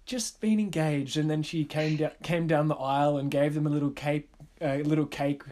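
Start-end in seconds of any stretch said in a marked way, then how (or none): 0.1-1.2 put-on flight attendant announcing in an Australian accent; light Australian cabin announcement. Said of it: "trying to do an Australian then".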